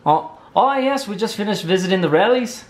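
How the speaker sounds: hammed-up Scottish small talk; unconvincing mock-Scottish; attempted Scottish accent. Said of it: "would you say with the Scottish accent".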